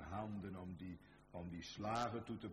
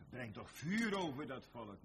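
urgent cry for judgment; 4 semitones higher, 6 dB louder than usual. Acted. Believer begging God for fire.

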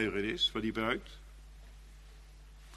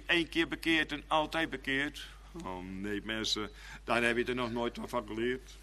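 ordinary delivery

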